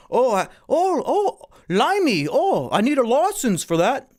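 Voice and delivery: mock a Brit with a silly British accent; hammed-up British accent. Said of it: "all that British shit".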